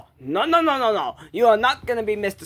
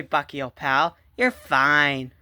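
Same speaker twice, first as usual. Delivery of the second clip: lower, soothing pitch; reassuring; 7 semitones lower, slower than usual. Acted. Reassuring frightened Bucky that all is fine, calming. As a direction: settle down low to calm a worried pal. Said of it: "Oh, don't worry".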